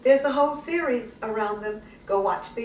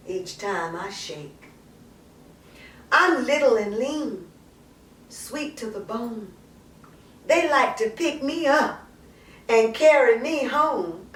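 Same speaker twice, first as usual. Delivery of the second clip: a playful, knowing poetry reading with teasing pauses; spoken-word poem reading, lightly flirtatious; sassy poem recital. Acted. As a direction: savour each line like a proud woman bragging. Performs Maya Angelou poem.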